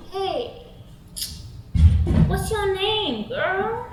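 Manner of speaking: drawled creepy pickup line; swaggering guy. Acted. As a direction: play the swaggering creep hitting on her. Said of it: "he's sort of swaggering down the street".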